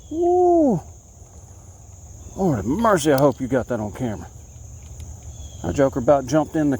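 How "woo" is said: very high joyful whoop; excited whoop. Real, not acted. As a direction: whoop at the jumping bass. Fish leaps near kayak.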